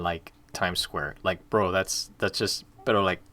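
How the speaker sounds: laid-back Miami local accent, full of "like" and "bro". Shown as a demonstration. Streamer shows a chat viewer the native's guide to Miami, Miami accent. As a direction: talk like a Miami native giving a bro the inside tips. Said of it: "Talk in the Miami accent".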